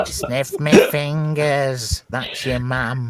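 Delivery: slow, drawn-out alien voice. Retold or imitated. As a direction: croak it slowly like ET. ET voice joke.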